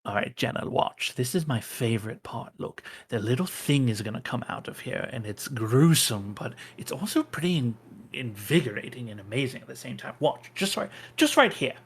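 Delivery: quick, eager fan gushing over his favorite part; Kieran, gushing. Acted. Kieran showing Jenna his favorite scene, eager and rushed. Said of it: "you hear Kieran's voice going".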